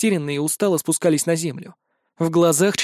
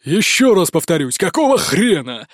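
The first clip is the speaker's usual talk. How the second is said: mock bellow; 4 dB louder than usual. A narrator's reading. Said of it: "Звучно и басовито, ... заорал он".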